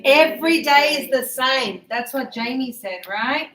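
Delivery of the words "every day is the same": Every day said clearly, with day fully voiced; teacher correcting the sentence Every day is the same; corrected pronunciation. Shown as a demonstration. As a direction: model the words Every day is the same carefully. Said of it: "See how I corrected that?".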